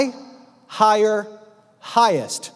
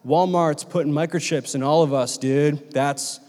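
low, hushed stoner-like bro voice; conspiracy-theorist bro; 5 semitones lower, slower than usual. Acted. Preacher mocks modern interpreters of the number, conspiratorial bro. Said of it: "you read modern interpretations of this number, you go".

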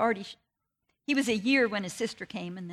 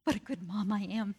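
smug self-praise; 5 dB quieter than usual. Retold or imitated. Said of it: "was thinking".

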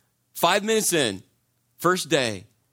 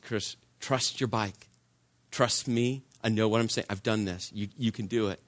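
tag; 4 semitones lower, 5 dB quieter than usual. Retold or imitated. Friend reassures frightened rider.

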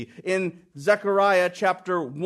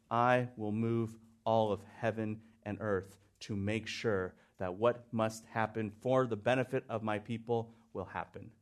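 soft voice of God; 8 semitones lower, 10 dB quieter than usual. Acted. Voices God's promise.

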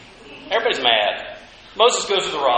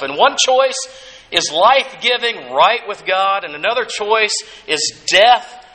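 louder, emphatic preaching push; 2 semitones lower, 4 dB louder than usual. Acted. Pastor urges congregation to walk by faith, louder preaching. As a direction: drive the call to faith home.

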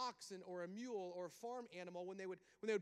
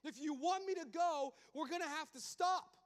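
God slowing Moses down before he slips; God warning; 8 semitones higher, 7 dB louder than usual. Acted.

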